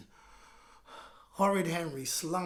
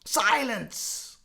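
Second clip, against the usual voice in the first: louder silence from the teacher; mild bellow; 6 semitones higher, 9 dB louder than usual. Acted. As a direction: call the class to order. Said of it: "bellowed Miss Battleaxe".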